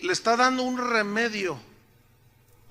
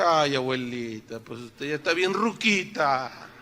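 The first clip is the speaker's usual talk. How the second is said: low, drawn-out mock sympathy; teasing; 6 semitones lower than usual. Pastor joking with an elderly sister, teasing mock pity. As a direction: tease gently, as if pitying a granny. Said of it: "es siempre bromeando".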